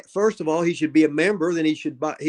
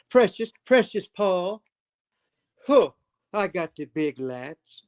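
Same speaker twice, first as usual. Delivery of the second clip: Iron Sheik imitating Paul; 3 semitones higher than usual. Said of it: "when the Sheik used to imitate".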